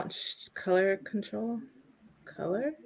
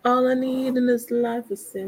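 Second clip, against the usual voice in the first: megalomaniac rant; 3 semitones higher, 4 dB louder than usual. Pretend. Villain boasts, loud slow shout.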